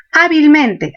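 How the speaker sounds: Hábilmente stressed on both A and MEN; double stress. Shown as a demonstration. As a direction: hit HÁ, then MEN, in Hábilmente. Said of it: "Tenemos el acento en a".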